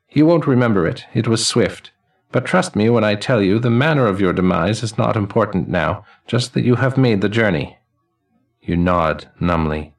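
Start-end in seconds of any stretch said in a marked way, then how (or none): 0.1-7.8 put-on high, ringing elderly man's voice; chiming old man. Elderly man greeting the newly dead, high and chiming. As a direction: chime each word like silver cymbals and laughter.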